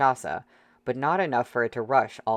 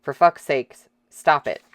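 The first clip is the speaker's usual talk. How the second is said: roaring; 3 semitones higher, 7 dB louder than usual. Acted. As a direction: roar it with all your force. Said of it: "Dong Lin roared".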